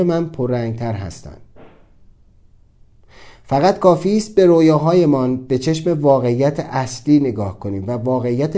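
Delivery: measured, formal recitation; formal reading. Acted. Reading his own written question aloud, formal and measured. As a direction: read it like a written reflection.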